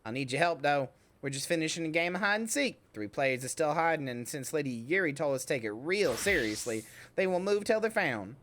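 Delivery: put-on lightly southern-accented child character; a slipping southern accent for a game character. Child asking for help with hide and seek, southern accent. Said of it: "I've moved into a southern accent".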